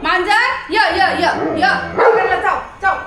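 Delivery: high, loud summons; excited calling. Pretend. Owner calling the cat to bite Tiger, excitedly. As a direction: call the cat over to wind up the dog. Calls cat, eggs dog on.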